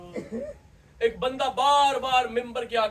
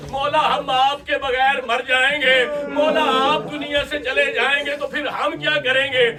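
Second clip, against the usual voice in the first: pleading cry; 3 semitones higher, 5 dB louder than usual. Acted. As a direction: cry out begging him not to leave. Companions plead with Ali. (साथी मौला से ऊँची आवाज़ में गिड़गिड़ाते हुए)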